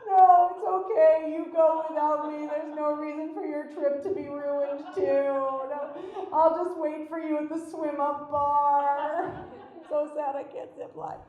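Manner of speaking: mock-sad martyr act, slowed down; hammed-up sorry-I-can't-come sigh; pretending to be sad to skip the zip line; fake disappointment. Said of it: "I was gonna go".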